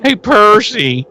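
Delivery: mock douchey greeting. Mocking the douchey Percy.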